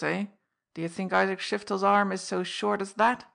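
loud, threatening fence voice; cornered receiver of stolen goods blustering; defiant old fence. Acted. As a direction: warn the thief off, bristling.

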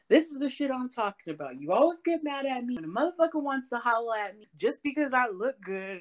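ranting high, mock outburst; going off. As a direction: tell him off, voice pushed up. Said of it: "Like, I went off".

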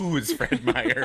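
breathy baffled whisper. Retold or imitated. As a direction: whisper it like a private thought. Retold baffled inner reaction.

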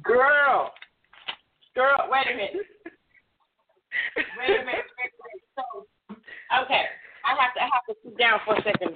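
distant, off-mic voice; speaking from across the room; far from mic. Real, not acted. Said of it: "I know I sound fa-, far away".

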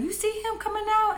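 high-pitched mock maternal outrage; imitating indignant mom. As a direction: act out mom's incredulous question, voice shooting up. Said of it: "she was pissed".

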